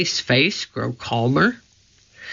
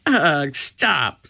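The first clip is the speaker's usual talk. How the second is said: disgusted groan. A narrator's reading. Annie disgusted.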